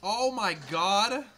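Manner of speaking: slow, drawn-out oh my God; dismayed. Real, not acted. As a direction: groan it out slowly. Reacting to game.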